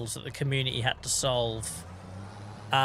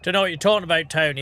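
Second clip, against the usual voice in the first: mock indignant; 3 semitones higher, 6 dB louder, much faster than usual. Real, not acted. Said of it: "that was a pig impression".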